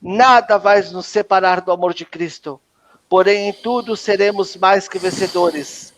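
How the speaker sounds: measured, rhythmic prayer declaration; declaração de fé. Acted. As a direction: proclaim each line as a blessing. Declaração de fé em lista. (proclamação solene de bênçãos)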